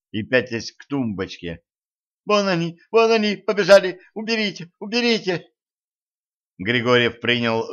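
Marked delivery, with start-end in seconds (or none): 2.2-5.5 high, frantic panicked cries; terrified screaming. A narrator's reading. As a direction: shriek at the tiny monsters. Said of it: "в ужасе завопила". (испуганный крик)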